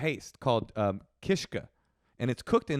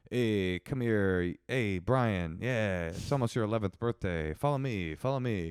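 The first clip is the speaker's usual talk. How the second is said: low mock-predatory Catholic voice; creepy Catholic impression; 5 semitones lower, 4 dB quieter than usual. Host mocks a Catholic luring a child, creepy coaxing. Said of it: "impression of a Catholic would be like".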